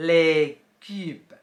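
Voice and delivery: les cubes as "lay kub", a short final b; French pronunciation. Shown as a demonstration. Teacher reading the vocabulary aloud, careful French. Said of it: "อ่านว่า".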